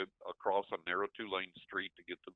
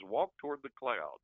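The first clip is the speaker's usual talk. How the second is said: inner voice; 5 semitones higher than usual. Retold or imitated. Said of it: "this voice says".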